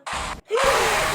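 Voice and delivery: high-pitched gasp of alarm; startled gasp. Real, not acted. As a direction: gasp as if caught out. Startled by the game's enemy. (شهقة خضة)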